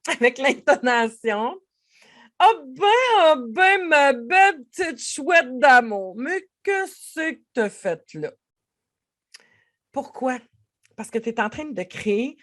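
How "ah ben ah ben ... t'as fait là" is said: high, loud, slowed loving tease; mock scold with affection; fond comic scolding. Shown as a demonstration. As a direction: coo at yourself like a pet. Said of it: "avec le ton, avec l'intonation".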